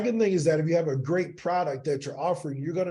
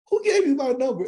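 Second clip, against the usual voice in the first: higher and louder, an affronted mother snapping at a caller; a mother angrily confronting a cold caller, higher and louder; retold angry outburst; 9 semitones higher, 5 dB louder than usual. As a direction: demand it like an angry mom. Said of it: "five minutes of just screaming at me".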